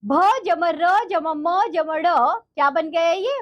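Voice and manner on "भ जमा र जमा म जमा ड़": letters spelled out slowly one by one; slow sounding out. Shown as a demonstration. Teacher slowly spells the letters for the children. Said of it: "इस री की मात्रा को आप लगाएंगे".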